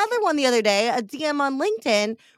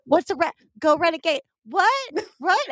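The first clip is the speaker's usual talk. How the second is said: baffled; 4 semitones higher than usual. Retold or imitated. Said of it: "I'm like".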